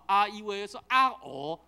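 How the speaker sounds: the vowels 啊、e、u、a、o each stressed; vowel demo. Shown as a demonstration. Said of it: "加重的时就是啊". (加重念母音)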